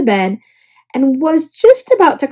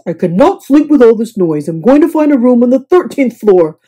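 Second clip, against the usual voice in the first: louder, exasperated; fed-up complaint; 6 dB louder than usual. A narrator's reading. Guest phoning desk, exasperated. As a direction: declare it firmly.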